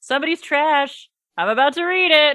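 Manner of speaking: shouted, high-pitched yell. Retelling a contestant's line from the show: imitating Liz yelling. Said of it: "I love Liz yelling".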